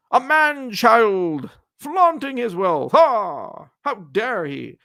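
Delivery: high, drawn-out scandalized critic, loud in bursts; mock outrage. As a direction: gasp out the accusations in hammed-up, high-pitched horror. Mocking critics scandalized by his wealth.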